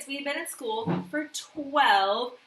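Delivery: ordinary delivery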